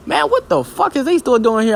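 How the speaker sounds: high pitched incredulous squeal; shocked disbelief. Retold or imitated. Reacting to the manga panel, high shocked disbelief. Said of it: "I'm like".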